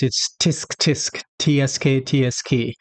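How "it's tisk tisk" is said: tisk tisk. Shown as a demonstration. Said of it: "in American English".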